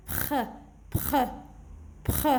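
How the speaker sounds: "Pr" as a short puffed blend; blended consonants. Shown as a demonstration. Teacher reading syllables for children, blended consonants. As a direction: sound out "Pr", not the letter names. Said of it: "regardez comment je vais lire".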